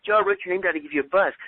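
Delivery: quick, brighter pitch on the call opener; upbeat phone opener. Shown as a demonstration. Coach demoing the call to Joe, upbeat and quick. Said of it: "redone call opener".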